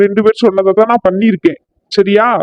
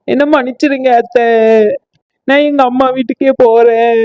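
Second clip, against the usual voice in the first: apologetic daughter-in-law; 3 semitones higher than usual. Acted.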